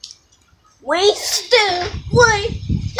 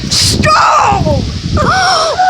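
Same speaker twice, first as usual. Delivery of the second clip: shouting over wind; 9 semitones higher, much slower than usual. Real, not acted. Yelling in strong wind outside.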